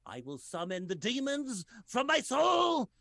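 slow, shouted grand proclamation; demon summoning. Pretend. Mitochondria summoning demons, slow shout. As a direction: roar it like a dark sorcerer. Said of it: "mitochondria in his body's like".

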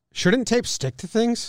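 high, slow incredulous whine; mock indignant. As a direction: read it like a baffled customer. Reading review in mock voice.

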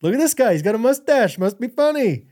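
high-pitched mock onlooker; playful voice of a passerby; imagined amused onlooker. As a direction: point out a funny guy, lightly hammed-up. Imagined onlooker mocking a mustache.

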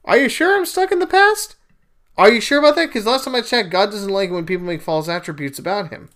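sarcastic retort. Acted. Retort to critics of him.

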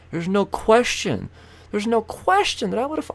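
high, put-on derp voice; a lightly voiced derp accent. Mocking out-of-state drivers, lightly voiced derp accent. Ranting in a higher voice.

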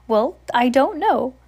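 high loud mocking witch voice. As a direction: play innocent like a cackling witch. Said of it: "Winifred protested".

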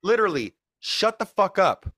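mock angry rant. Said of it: "that was my little piece".

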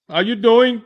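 mock caller greeting. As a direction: put on the caller's overly chipper greeting. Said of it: "I'm like".

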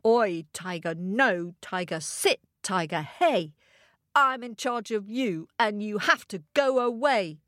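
controlled, composed telling-off of a tiger; measured rhyme. Acted. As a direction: recite the order to the tiger calmly. Calmer closing recital of the rhyme.

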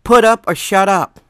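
a forceful, hissed whisper; a loud stage whisper, daring the mayor; fierce whisper. Retold or imitated. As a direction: hiss the ultimatum at her under your breath. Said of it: "I'm like".

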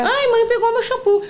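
put-on high, loud whining child; whiny kid. Mom imitating her kids tattling in the bath.

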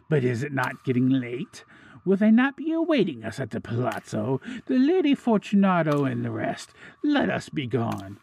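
high, rising plea to be released; anxious pleading. A narrator's reading. Trapped man begs his captor to go home, pleading. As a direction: plead nervously, voice climbing as you go.

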